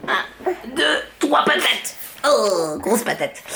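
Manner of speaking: soft sing-song counting. Real, not acted. Counting game lifting the baby.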